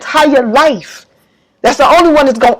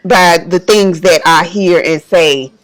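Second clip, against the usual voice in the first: lower, choked-up and halting; emotional, subdued; 6 semitones lower than usual. Real, not acted. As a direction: voice sinking with emotion, pausing often. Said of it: "I'm gonna get a little emotional".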